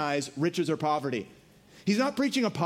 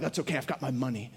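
quick, low, much softer brush-off; smug shrug; 8 semitones lower, 5 dB quieter, faster than usual. Retold or imitated. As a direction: toss it off like nothing matters. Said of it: "you're like".

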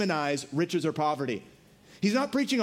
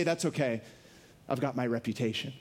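quick, low, much softer brush-off; smug shrug; 9 semitones lower, 5 dB quieter than usual. Retold or imitated. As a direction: toss it off like nothing matters. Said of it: "you say".

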